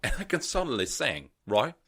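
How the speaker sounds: high, hammed-up Liverpool auditioner; audition contestant. Contestant gushing to Simon and the other judges, mock starstruck voice. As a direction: pitch it up like an overawed contestant. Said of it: "doing the audition for X Factor".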